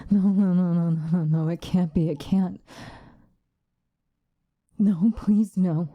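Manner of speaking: rapid, tumbling disbelief; acted horrified pleading; panicked denial. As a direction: refuse to believe the terrible discovery. Discovering siblings' blood.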